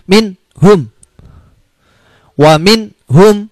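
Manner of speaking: min hum said crisply, the n cut short; slow, careful wa min hum; clear izhar demo. Shown as a demonstration. Teacher demonstrating the izhar example, slow and careful. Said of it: "Contoh bacaan idhar".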